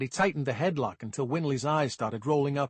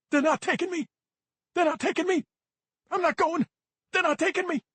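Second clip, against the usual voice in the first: put-on high, loud frantic yelling kid; paranoid shouting; 5 dB louder than usual. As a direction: scream it like they're dragging you away. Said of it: "Between the shouts".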